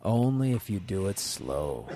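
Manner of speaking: low, soft and slow; low smooth flirt. Acted. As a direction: drop low and lean in. Seductive reply.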